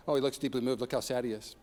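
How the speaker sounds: soft, low, pitying mutter; mock pitying murmur. Preacher mimics a bystander, softly pitying murmur. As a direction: murmur it like a mild onlooker. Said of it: "he was like this?".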